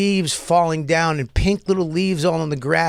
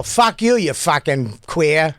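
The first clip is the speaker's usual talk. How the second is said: mock Boston accent; slower than usual. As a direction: curse like a caricature Boston local. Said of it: "Boston tone is fucking atrocious 'cause it's all".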